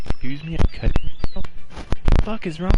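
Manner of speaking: put-on a girl insulted, firing back in outrage; outraged retort. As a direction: hurl it back at her, indignant. Natsuki furious at insult.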